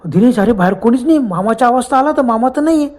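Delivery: mild mock panic, pitch climbing; retold frightened yell. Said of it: "एकदम घाबरून ओरडलो".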